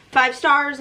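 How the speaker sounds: "Five stars" said aloud with a lift on "stars"; bright verdict. Real, not acted. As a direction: announce the rating with eager enthusiasm.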